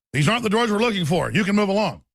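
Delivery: dazed stormtrooper. Retold or imitated. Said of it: "the famous clip from episode four, Star Wars".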